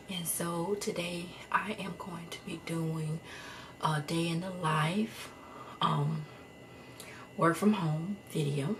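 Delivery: breathless, half-whispered words; out of breath. Real, not acted. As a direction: talk while catching your breath. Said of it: "I'm just out of breath".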